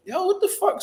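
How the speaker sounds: high, startled yell; sharp high-pitched alarm; retold startled shout. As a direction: jump at what he sees. Startled reaction to the man.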